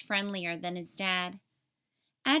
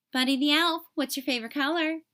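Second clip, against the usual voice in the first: chirpy phone greeting; 4 semitones higher, 4 dB louder, faster than usual. Acted. Buddy answering the office phone.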